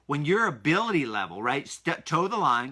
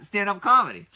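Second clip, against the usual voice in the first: amazed; 5 semitones higher, 5 dB louder than usual. Real, not acted. Amazed repeat again.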